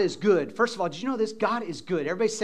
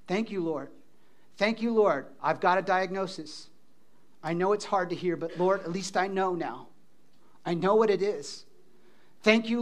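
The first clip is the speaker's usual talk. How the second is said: softer, gentle prayer of thanks; quiet thankful prayer; 2 semitones lower, 5 dB quieter than usual. Shown as a demonstration. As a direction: model a calm grateful prayer. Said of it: "Try it".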